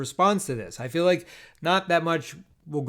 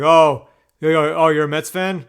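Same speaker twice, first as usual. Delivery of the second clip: mock player taunt; 5 dB louder than usual. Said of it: "this other player's like".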